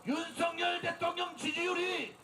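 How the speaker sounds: shouted protest speech to a crowd; rally the crowd at full volume; roaring rallying speech. Real, not acted. Leads political rally.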